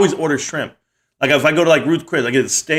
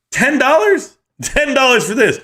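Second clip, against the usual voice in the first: much higher, squeaky shock at the price; outraged disbelief; 11 semitones higher than usual. Retold or imitated. Husband shocked at tiny lobster tail price, high incredulous cry. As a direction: balk at the bill like it's a robbery. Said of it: "And I was like".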